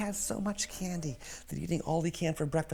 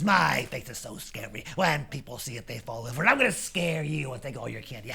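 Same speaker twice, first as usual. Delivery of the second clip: lightly voiced bully's brag; mildly menacing big kid; boastful teenager. Teenager threatens to scare Lance.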